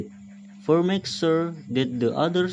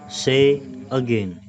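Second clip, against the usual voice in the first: loud slow instruction; slower than usual. Shown as a demonstration. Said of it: "If not, listen carefully".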